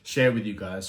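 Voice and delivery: out of breath after a workout. Real, not acted. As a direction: speak while still catching breath. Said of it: "I'm a little bit out of breath".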